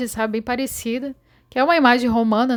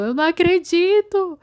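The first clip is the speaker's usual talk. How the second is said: retold disbelief; 8 semitones higher, 3 dB louder than usual. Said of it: "E eu ficava".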